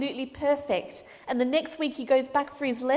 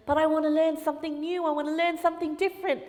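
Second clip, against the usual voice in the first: put-on discouraged boy; 4 semitones higher, faster than usual. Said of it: "the boy gets discouraged".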